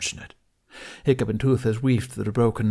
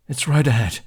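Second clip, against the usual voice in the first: excited; 4 semitones higher, 6 dB louder than usual. Acted. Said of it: "sounded just as excited".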